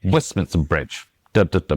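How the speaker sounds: "Westminster Bridge" with "minster" hurried and weak; swallowed middle. Shown as a demonstration. Author shows the secondary syllables, swallowed middle. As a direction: stress "West" and "Bridge", swallow what lies between. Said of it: "almost swallowed behind the Westminster Bridge".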